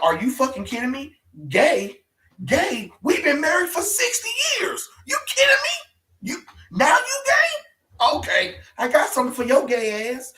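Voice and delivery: high, loud, half-laughing wronged wife yelling; mock outraged Harlequin. Comics fan voicing Harlequin yelling at her husband, mock outrage. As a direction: squeal like a betrayed wife of sixty years.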